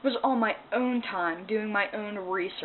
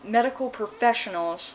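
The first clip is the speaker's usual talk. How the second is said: emphatic; 4 semitones higher, 6 dB louder than usual. Retold or imitated. Arguing with the therapist.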